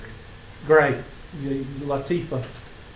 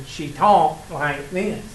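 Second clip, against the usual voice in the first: slow, drawn-out nasal imitation; much slower than usual. Teacher mimicking a student from Pennsylvania, slow nasal talk. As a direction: drag the words out through the nose. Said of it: "She had a nasal thing".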